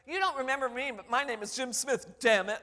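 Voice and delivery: emphatic introduction, "damn it" punched loud. Retold or imitated. Former student reintroducing himself to professor, loud emphatic declaration. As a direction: blurt the secret curse out loud. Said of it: "they say it out loud".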